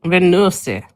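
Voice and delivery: Venusi with a southern twang; southern accent. Shown as a demonstration. Coaxing a refusing host with Venusi in a southern accent. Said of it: "if it's in a southern".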